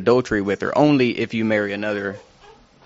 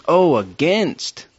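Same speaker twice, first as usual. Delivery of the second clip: dawning realization; 6 semitones higher, much slower than usual. Retold or imitated. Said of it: "I read it and I was like".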